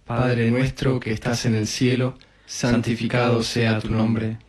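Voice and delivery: even, level-toned recited prayer; rosary prayer. Real, not acted. Leader opens the Our Father for the group, recited prayer. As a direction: lead the prayer in a steady, measured cadence.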